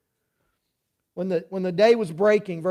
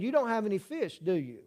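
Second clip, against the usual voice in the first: quiet knowing question; 7 dB quieter than usual. Shown as a demonstration. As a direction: say it softly, as if the answer were already known. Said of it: "in his question, there's really an answer".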